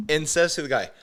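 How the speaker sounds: ordinary delivery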